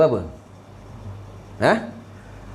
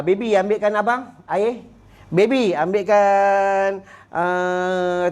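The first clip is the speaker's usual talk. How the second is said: sweet talk to wife; much slower than usual. Retold or imitated. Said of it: "Dia cakap dengan bini".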